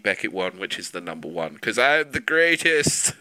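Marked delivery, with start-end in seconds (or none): 1.6-3.1 slow grand boast; mock boast. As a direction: savor the boast.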